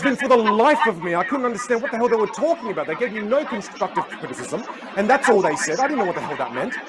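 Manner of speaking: high, exasperated imitation easing off; retold fury. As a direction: vent on his behalf, starting high. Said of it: "He was furious".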